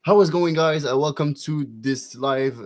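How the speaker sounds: livestream intro that stalls into hesitation; intro de live en anglais. Shown as a demonstration. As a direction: greet viewers brightly, then slow and get stuck. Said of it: "on va dire que je fais mon intro". (intro en anglais qui bloque)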